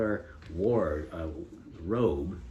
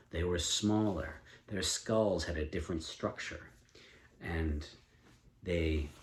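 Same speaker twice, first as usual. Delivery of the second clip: story narration. A narrator's reading. Parent takes turn narrating.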